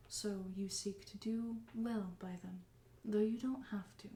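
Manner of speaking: soft, dropping to a whisper; quiet, dutiful machine; robot voice. Acted. Bind continues explaining.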